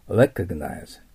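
recognize with a rolled-back English R at the start; teacher repeating recognize for the class; careful R sound. Shown as a demonstration. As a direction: stress the first syllable of recognize. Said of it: "Rの発音ですよ".

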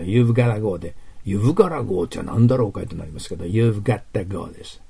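"You've gotta go" linked, with gotta for got to; reduced form. Shown as a demonstration. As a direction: say "You've gotta go" as a natural American would. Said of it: "you've gottaってなります".

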